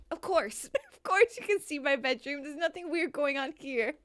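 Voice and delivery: imagined host. Acted. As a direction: play the host hiding something odd, amused. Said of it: "Can I see your bedroom".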